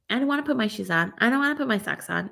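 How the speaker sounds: put-on quick whiny kid complaint; whiny child, fast. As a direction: rattle off a child's whine. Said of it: "sometimes it's like".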